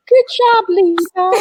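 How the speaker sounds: laughing praise. Real, not acted. Mom tells Lisa good job on her answer, laughing. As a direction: praise through a real laugh. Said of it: "why are you laughing?".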